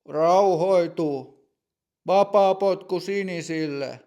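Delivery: calm the player, then rule firmly; stern referee. Acted. Referee ruling after the foul, firm and loud. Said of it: "tuomari toteaa".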